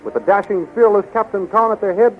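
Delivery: ordinary talk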